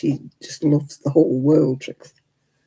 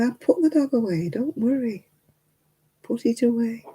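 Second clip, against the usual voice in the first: retold reassurance; 7 semitones higher than usual. Own reply to postwoman, sing-song.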